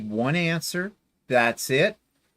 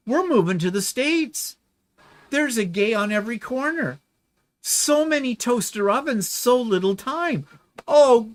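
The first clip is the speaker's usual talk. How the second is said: gushing, sarcastic rapture, higher at the peaks; gushing mock delight about gay America; mock excitement; 6 semitones higher than usual. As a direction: ham up the wide-eyed wonder. Sarcastic mock enthusiasm over Americans.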